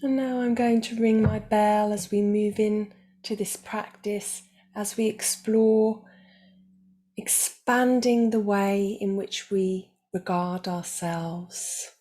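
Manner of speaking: calm, measured meditation guide with long pauses; guided meditation. Real, not acted. Meditation teacher guiding listeners toward self-acceptance, calm and unhurried. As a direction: guide listeners gently, leaving space between phrases.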